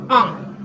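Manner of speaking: French nasal "on", held through the nose; nasal vowel demo. Shown as a demonstration. Teacher showing students the nasal sound, nasal vowel demo. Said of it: "así".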